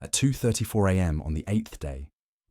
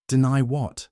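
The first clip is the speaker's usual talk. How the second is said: mock innocence; 7 semitones higher than usual. A narrator's reading. Wife feigns confusion.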